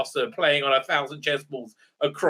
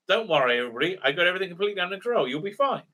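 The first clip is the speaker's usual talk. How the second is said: quick, tossed-off reassurance; mock breezy reassurance; much faster than usual. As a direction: rattle off a mock all-is-well message.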